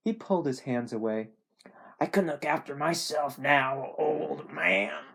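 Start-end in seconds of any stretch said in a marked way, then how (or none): 2.0-5.1 put-on Southern voice, angrily protesting; angry dying Southerner. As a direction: act an ailing Southerner pushing help away. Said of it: "he reacted angrily".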